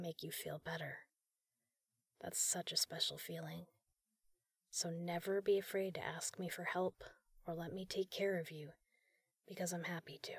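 hushed, caring whisper close to the mic; tender ASMR whisper. Acted. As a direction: whisper comfort to someone you look after. Tender ASMR caretaker roleplay.

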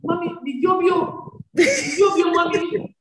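fond imitation of a small boy's speech; imitating her son. Mother fondly imitating her son's speech: sweet childlike voice. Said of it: "sometimes it's so sweet just to hear him say".

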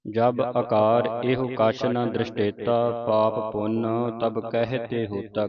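slow, measured recitation of verse; scripture recitation. Shown as a demonstration. Teacher recites the shlok for the congregation, slow recitation. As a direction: recite slowly with long-held syllables.

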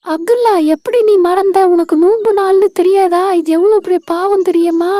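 put-on firm, scolding older-sister voice; scolding big sister. Sister scolding her brother for forgetting the fast, firm big-sister voice. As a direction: tell him off like a big sister.

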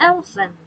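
teacher repeating elephant; model word again. Shown as a demonstration. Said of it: "คำต่อมาค่ะ".

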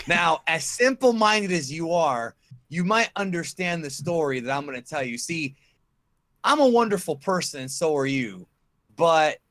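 wrestling promo. Pretend. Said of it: "I'm gonna do a promo over again".

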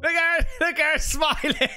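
excited. Real, not acted. Excited reaction to clip.

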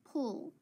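put-on teacher saying Pull so kids hear no E; careful demo. Shown as a demonstration. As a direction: Pull said slowly and clearly. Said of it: "listen when I say pull".

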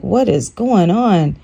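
mildly acted astonishment; retold shock. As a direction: retell your bewilderment, pitch climbing at the end. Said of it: "completely in shock".

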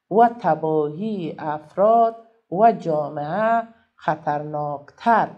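very slow, word-by-word classroom reading; reading text aloud. Shown as a demonstration. Teacher reading the lesson text to pupils, slow deliberate reading. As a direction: read it out slowly, separating each word.

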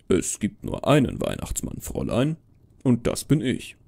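a hint of stern Father Christmas; Santa insisting. Santa telling the girl he's the only one, insistent.

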